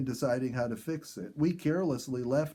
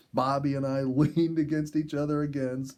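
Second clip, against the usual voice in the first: a real laugh breaking into the line. Real, not acted. Narrator recalling laughing with Bobby, laughing. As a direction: chuckle as the memory comes back.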